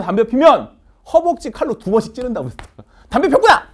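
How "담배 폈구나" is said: high, loud gotcha yell; mock king's shout. King yelling at a street smoker, loud and high. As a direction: catch the smoker red-handed.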